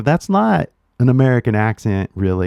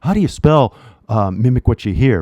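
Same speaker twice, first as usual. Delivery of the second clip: louder, fast, a puzzled learner asking; confused learner; 3 dB louder, faster than usual. Retold or imitated. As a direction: blurt it out like a baffled student. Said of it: "they're like".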